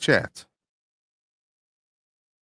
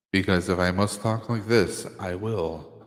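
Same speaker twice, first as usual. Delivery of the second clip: lower, deep mock god voice; lightly voiced immortal being, dropping low; 5 semitones lower, 3 dB quieter than usual. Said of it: "Do I have to use my immortal voice?".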